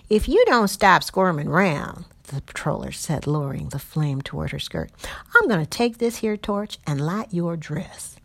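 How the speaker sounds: put-on a drunk bully leaning in with the torch; menacing patroller voice. Patroller threatens Lori.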